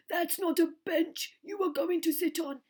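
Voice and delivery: loud, high bellowed warning; bellowing elephant. A narrator's reading. Trunky warning the children off the bench, loud bellow. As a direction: trumpet the warning out. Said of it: "he bellowed".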